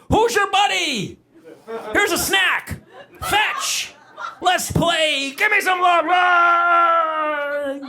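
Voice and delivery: high, excited puppy talk to a dog; baby-talk praise. Retold or imitated. Owner praising puppy in high sing-song voice.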